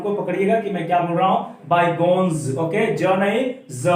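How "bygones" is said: "bygones" said very slowly, with a clear final z; careful model pronunciation. Shown as a demonstration. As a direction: stretch out "bygones" so listeners can catch every sound. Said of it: "sound को थोड़ा ध्यान से सुनिएगा". ("bygones" बहुत धीरे, आख़िरी 'ज़' साफ़ सुनाई दे)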